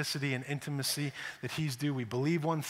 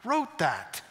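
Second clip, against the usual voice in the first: dry deadpan; 4 semitones higher, slower than usual. Acted. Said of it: "He's like".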